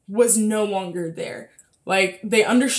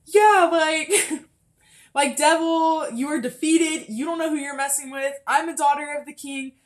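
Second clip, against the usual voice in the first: acted defiant declaration; 5 semitones higher than usual. Believer alone in her room telling off the devil, defiant and pitched up. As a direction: tell off an enemy with mild yelling. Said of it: "she yelling at the wall".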